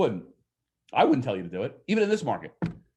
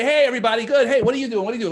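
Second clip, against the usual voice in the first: higher, louder cheery sitcom-family hello; a chirpy family-show hello, pitched up and loud; Brady Bunch greeting; 7 semitones higher, 6 dB louder, much faster than usual. Acted. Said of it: "Like the Brady Bunch".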